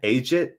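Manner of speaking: Ajit as "AY-jit", rising; pronunciation check. Shown as a demonstration. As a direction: try Ajit with a hard j, questioning. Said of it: "Am I saying that right?".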